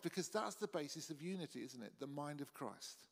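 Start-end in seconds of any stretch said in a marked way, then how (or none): 2.0-3.1 The mind of Christ said much softer and slower; hushed, reflective echo of the phrase; softer, slow repeat. Shown as a demonstration. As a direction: let the mind of Christ sink in quietly.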